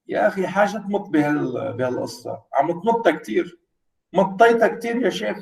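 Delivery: fast, teasing Arabic "stop stretching it"; colloquial Arabic reproach. Retold or imitated. Lecturer showing the Arabic way to scold an exaggerator, fast. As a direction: rattle it off fast, chiding a friend. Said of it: "you will say".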